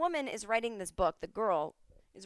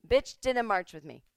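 louder, punchy mock reprimand; mock MLK scolding; 7 dB louder than usual. Martin Luther King comes back to scold Bernie, louder mock scolding. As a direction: snap it at him like a fed-up civil rights leader. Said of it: "I want him to come back and go".

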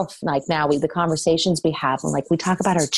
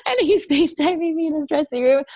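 laughing; 10 semitones higher than usual. Real, not acted.

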